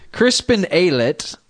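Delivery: lightly put-on posh English accent, drawn out; British accent. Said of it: "I had to do the accent for that".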